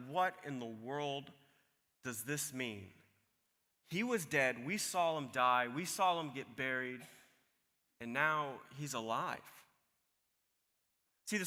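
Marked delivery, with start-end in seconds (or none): 0.1-9.4 softer and lower, dazed; half to yourself, trying to take it in; a stunned whisper-like murmur; hushed bewilderment. Retold or imitated. Stunned women leaving the tomb.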